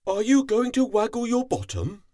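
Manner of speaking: high, loud, fast cat voice calling out; playful cat calls out. A narrator's reading. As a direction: call across lazily like a cat. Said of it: "yawned and called".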